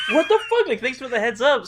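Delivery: very high, loud indignant squawk; mock outrage. To a friend who shared the news late, mock outrage.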